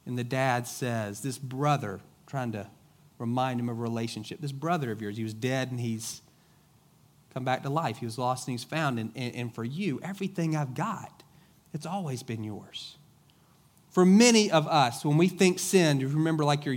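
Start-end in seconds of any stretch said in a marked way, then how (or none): 4.4-13.0 softer, tender reassurance; a quiet, pleading father; gentle father. Acted. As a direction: coax him back like a loving dad. Father answers older son gently.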